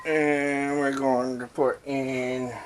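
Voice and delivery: slow, careful mock-French accent; bad French accent. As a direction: draw it out with fake French. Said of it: "a really bad French impression".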